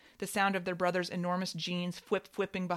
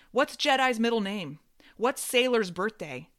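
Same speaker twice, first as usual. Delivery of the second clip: taunting quiz; 4 semitones higher, 7 dB louder than usual. Acted. Sister quizzes father, slapping table.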